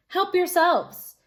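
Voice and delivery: slow, high, drawn-out invitation; slow high welcoming call; generous offer. Acted. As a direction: coax the animals kindly. Beckon offers the animals apples.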